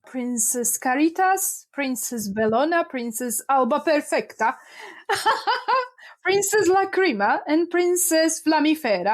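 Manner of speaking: names read with Italian pronunciation, amused. Real, not acted. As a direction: read the princess names as if Italian, giggling partway. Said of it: "I'm reading it in Italian".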